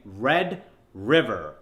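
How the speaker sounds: slow American accent, each word separated. Shown as a demonstration. Coach modelling the drill in an American accent. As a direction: hit the American r's slowly and firmly. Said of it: "in an American accent".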